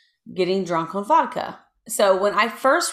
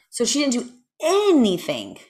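pondering; 4 semitones higher than usual. Real, not acted. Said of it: "I made a very pondering expression".

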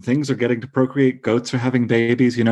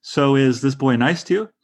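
innocent neutral question; 3 semitones higher than usual. Retold or imitated. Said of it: "very innocent, tonally neutral questions".

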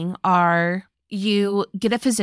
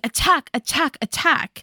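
eager battle cry; 6 semitones higher than usual. Acted. Acts out Alexander urging attack.

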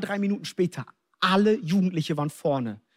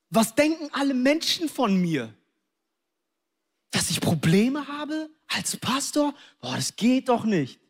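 mock indignant inner protest, pitched up at first; proud protest; 5 semitones higher than usual. Preacher replaying his own pride before the altar call, mock indignant. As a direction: play proud disbelief, stretching the words.

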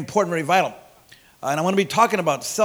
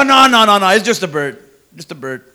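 mob dismissive; 6 dB louder than usual. Retold or imitated. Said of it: "They go".

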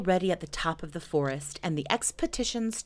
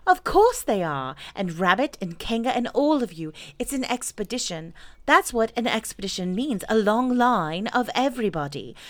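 lightly voiced Christopher Robin; 3 semitones higher than usual. Christopher Robin briefs Pooh on the expedition, lightly voiced and confident. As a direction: lightly act a confident leader explaining.

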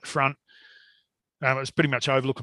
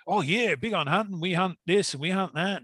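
higher-pitched mock American accent; retold American accent, pitched up; 4 semitones higher than usual. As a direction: lightly imitate an American bragging about hunting. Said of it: "got into the American accent".

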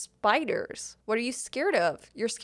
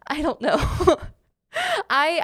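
laughing through the words, pitched up; 6 semitones higher, 6 dB louder than usual. Real, not acted. Laughing at Emma's accent question, real laugh. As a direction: laughs off the question she can't answer.

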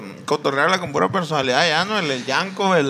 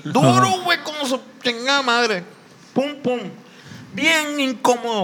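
animated complaint; 6 semitones higher than usual. Real, not acted. He complains to friends about the hard van seat. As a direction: exclaim how hard it was.

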